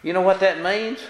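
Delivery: ordinary talk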